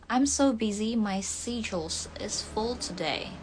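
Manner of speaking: British accent. Shown as a demonstration. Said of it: "Ini kalau British schedule".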